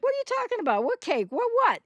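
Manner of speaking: high, incredulous playing dumb; mock feigned confusion. Therapist mimics a denying borderline, high and incredulous. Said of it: "they'll be like".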